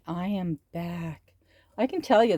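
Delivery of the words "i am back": sleepy yawn through the words. Real, not acted. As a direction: talk mid-yawn, sleepy. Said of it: "I am yawning".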